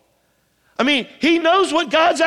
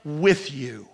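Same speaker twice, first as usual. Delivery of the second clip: gentle reassurance; 3 semitones lower, slower than usual. Acted. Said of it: "he says".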